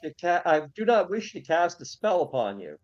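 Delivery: lightly acted formal address; formal adventurer. Adventurer declines to cast a spell on the sphinx, formal. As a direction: declare it with courtly formality.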